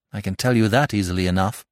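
quick, mildly bitter reply; a touch of bitterness, said fast. Acted. Jack answering the doctor about his strain, mildly bitter. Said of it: "said Jack bitterly".

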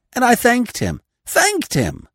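high, anguished moan. Acted. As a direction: moan it in torment. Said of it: "moaned Edward Coots".

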